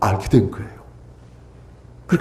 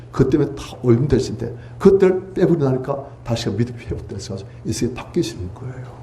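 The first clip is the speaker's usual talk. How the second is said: ordinary delivery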